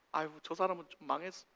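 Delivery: mounting resentment erupting into a shout; spiteful grudge. Acted. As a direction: start as grumbling, build to a high, loud rant. Voices a spiteful grudge, building.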